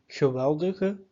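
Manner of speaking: Geweldige stressed on wel, the other e as schwas; stressed middle syllable. Shown as a demonstration. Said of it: "emphasis is on the indicated E".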